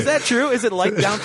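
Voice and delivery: high, disbelieving question; surprised. Real, not acted. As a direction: jump up in pitch, amazed.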